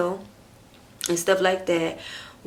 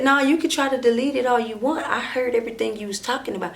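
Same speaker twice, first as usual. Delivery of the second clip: higher, louder insistent retort; retold argument; 4 semitones higher, 4 dB louder, faster than usual. Woman telling boyfriend she heard everything, heated retort. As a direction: call him out, mildly heated. Retold quarrel over deleted phone evidence.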